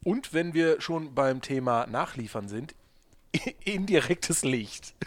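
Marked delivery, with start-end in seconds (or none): 3.6-4.9 slow laughing words; giggling it out. Real, not acted. Laughs while starting topic.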